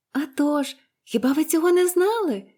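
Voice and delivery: put-on high, surprised girlish question; exclaiming. A narrator's reading. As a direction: cry it out in innocent amazement. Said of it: "вигукнула Поліанна". (здивований дівочий вигук)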